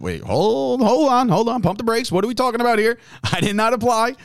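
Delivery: lightly hammed-up shock at the call; mock startled protest. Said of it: "And I said".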